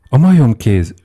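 high, loud narrated cry; loud scream. A narrator's reading. Wife wakes husband with her cry, screaming loudly. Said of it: "sikoltotta hangosan".

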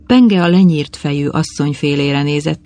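plain reading voice

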